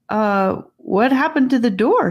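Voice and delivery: hesitate, then ask in alarm; startled girl. Acted. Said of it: "To her surprise".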